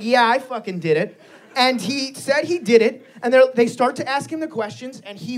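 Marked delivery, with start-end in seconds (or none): 0.0-1.2 mildly mock-nonchalant admission; offhand imitation of an unbothered culprit. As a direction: own up as if it were nothing. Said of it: "Nonchalant, just like".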